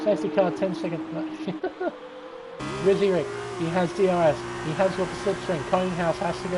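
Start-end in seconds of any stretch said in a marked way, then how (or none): 1.0-2.8 short high laugh. Real, not acted. Commentator amused by the safety car's penalty, brief laugh. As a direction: let out an amused chuckle.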